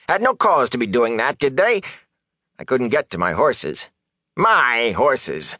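high-pitched, indignant complaint; aggrieved peddler. Acted. Peddler lamenting his burned wagon and lost horses, aggrieved.

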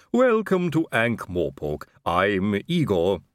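slow, lisping servant drawl; a creepy, lisping manservant; Igor's voice. A narrator's reading. Igor introduces himself.

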